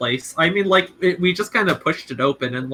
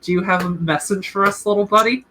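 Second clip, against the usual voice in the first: cutesy question to a little bird, lilting up at the end; cute coaxing; 4 semitones higher than usual. Acted. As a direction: sweet-talk a tiny animal. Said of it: "sort of cutely, you know, talk to a swallow".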